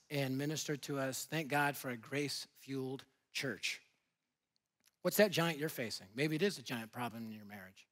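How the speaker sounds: low, very soft, intimate preaching; hushed sincere appeal. Real, not acted. Pastor asking listeners about their own giant, hushed and sincere. Sober appeal after the story.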